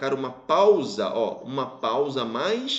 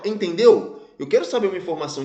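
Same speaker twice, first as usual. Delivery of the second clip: "Entendeu" fired out as a louder question; direct question; 2 semitones higher, 5 dB louder, faster than usual. Shown as a demonstration. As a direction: ask "Entendeu" head-on, then continue quickly. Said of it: "faz isso de forma direta".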